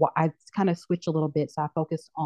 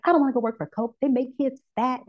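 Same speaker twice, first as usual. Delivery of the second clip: high mock outrage at Coke; lightly hammed activist refusing to work for Coke; militant; 8 semitones higher than usual. Refusing the Coca-Cola job offer, high hammed-up militant disgust. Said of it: "like, militant".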